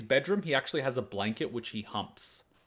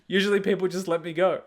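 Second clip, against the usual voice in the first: bewildered dog; 7 semitones higher, 6 dB louder than usual. Retold or imitated. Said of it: "It was just like".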